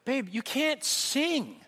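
slow, gentle but blunt verdict; blunt truth. Retold or imitated. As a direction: break it to them slowly. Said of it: "first people ... told them".

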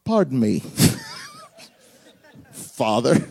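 a hint of a timid boy; mock polite son. Isaac addressing his father, squeaky and mock polite. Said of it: "His son goes".

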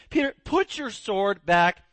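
slow, firm command; Jesus telling Peter to sheathe his sword; rebuke. Retold or imitated. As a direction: order him gently but firmly. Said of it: "Jesus again rebukes him".

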